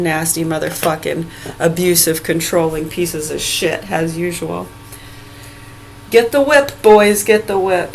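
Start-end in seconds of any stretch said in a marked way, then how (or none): 6.1-7.9 angry raised tone. Real, not acted. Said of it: "I gotta stop using that tone".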